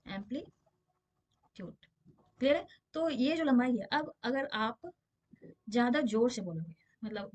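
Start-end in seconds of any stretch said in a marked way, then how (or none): 0.1-1.9 drawn-out term. Shown as a demonstration. Teacher repeats the English term.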